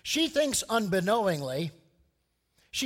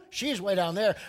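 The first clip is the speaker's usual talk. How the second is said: smug Pharisee; 5 dB louder than usual. Retold or imitated. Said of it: "Pharisee thought".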